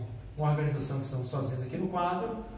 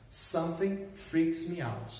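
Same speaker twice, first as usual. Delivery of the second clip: slower repeat; slower than usual. Shown as a demonstration.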